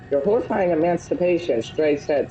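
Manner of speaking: lightly voiced dramatic narrator. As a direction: read it like a movie trailer. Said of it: "use my best narrator voice".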